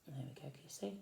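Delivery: soft breathy whisper to the listener. Real, not acted. Parent whispering to a child over the picture book.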